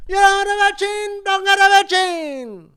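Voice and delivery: fast, loud, high cartoon Italian accent; stereotypical Italian accent. Host mocking vaccine refusers in loud Italian accent. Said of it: "problematic Italian, uh, stereotypical voice".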